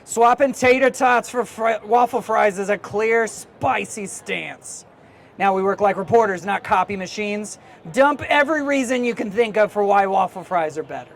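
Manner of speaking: loud curmudgeonly editor prodding a student; Stanley. Acted. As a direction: play a cranky old school newspaper editor pushing a kid. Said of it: "It's just me channeling Stanley".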